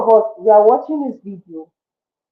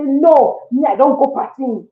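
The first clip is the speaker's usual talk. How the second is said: sharp mock refusal, a touch higher; aggressive refusal; 4 semitones higher than usual. Mocking someone who turns aggressive over authenticity, mock sharp. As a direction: snap back a no, half-hearted. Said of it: "be aggressive and say".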